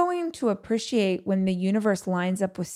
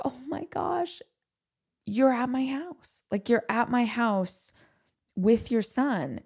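awed delight; 4 semitones higher than usual. Retold or imitated. Retells delight at friend visiting.

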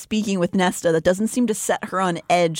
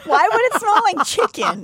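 grossed out; 12 semitones higher than usual. Real, not acted. Disgusted question.

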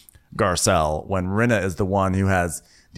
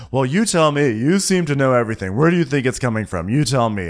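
a touch louder, mock confrontation; imitated challenge; 4 semitones higher, 4 dB louder than usual. Garcelle challenging Rinna, mock-confrontational. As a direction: throw the questions back, mildly exasperated. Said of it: "So Garcelle goes".

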